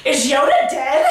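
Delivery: slow question breaking into laughter; mock-innocent asking, stretched out; clueless question. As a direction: laugh at your own naive question. Quoting own clueless text question.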